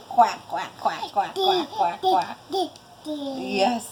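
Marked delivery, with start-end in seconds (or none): 0.1-2.4 playful run of quacks; duck quacking. Pretend. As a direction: imitate a duck, quack after quack. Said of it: "Can you quack too?".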